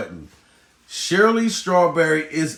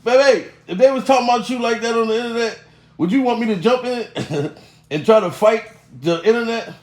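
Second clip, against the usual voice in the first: higher, laughing boast to his wife; higher, chuckling show-off teasing his wife; imagined rich husband, laughing; 4 semitones higher than usual. Retold or imitated. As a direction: gloat to the wife while laughing at the internet. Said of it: "I'd be sitting back laughing like".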